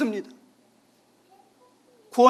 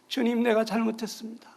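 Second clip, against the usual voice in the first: whispered, broken confession; 울먹이며 속삭이는 고백; tearful whisper; 5 dB quieter than usual. Retold or imitated. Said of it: "그래서 울면서". (아내가 주님께 울며 속삭이듯 회개하는 목소리)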